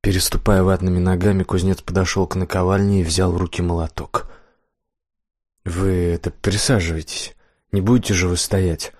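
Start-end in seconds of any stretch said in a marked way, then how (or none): 5.6-8.9 hospitable offer. Acted. Blacksmith nervously inviting Death to sit, welcoming. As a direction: make the guest feel at home, gently. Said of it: "Вложив в свой голос всё своё гостеприимство".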